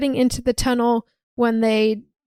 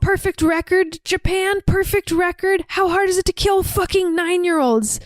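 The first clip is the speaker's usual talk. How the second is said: higher, mildly voiced exasperated boss; a light mock rant at the monitor; 8 semitones higher than usual. Sitterson fuming at the Japan team's perfect record, exasperated rant.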